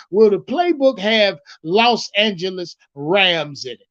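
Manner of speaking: measured retelling of a question; quoting the reporter. Retold or imitated. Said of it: "That's how he asked him".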